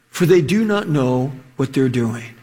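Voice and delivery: low, gentle and steady; tender plea. Retold or imitated. Jesus praying for his mockers, low and tender. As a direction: forgive them gently from the cross. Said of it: "He says".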